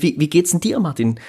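ordinary delivery

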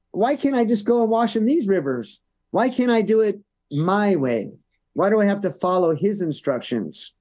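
retold indignant protest, lightly acted; mildly angry complaint. Naaman objecting to Elisha's instructions, mildly indignant. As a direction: complain like an annoyed commander, understated. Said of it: "he was quite angry".

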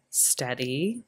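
soft breathed calm-down; hushed, soothing word. Acted. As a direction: murmur it to steady her. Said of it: "Callum breathed".

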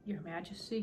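very soft, gentle call; low-volume, tentative call. A narrator's reading. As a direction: address him in a hushed voice. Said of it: "she said softly".

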